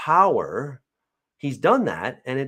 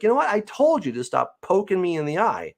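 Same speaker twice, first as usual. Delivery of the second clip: mock lost temper; 8 semitones higher than usual. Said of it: "You're gonna lose your temper".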